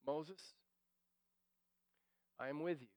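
a soft, intimate divine answer; hushed reassurance. Pretend. God's answer softly.

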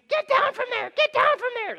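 high, loud mock yelling at the kids; mock scream. Parent screaming at the kids in a fight, hammed-up high yell.

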